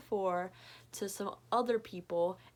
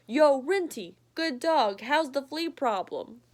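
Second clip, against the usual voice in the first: higher, louder casual hello; breezy talking dog; cheeky dog greeting; 4 semitones higher, 4 dB louder than usual. Acted. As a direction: call out to the other dog. Martha greets another dog.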